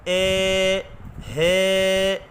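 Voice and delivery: اے، ہے with a broad majhool e sound; majhool vowel demo. Shown as a demonstration. Teacher showing students the majhool reading to avoid. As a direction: say اے، ہے the wrong majhool way. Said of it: "مجہول سے مراد".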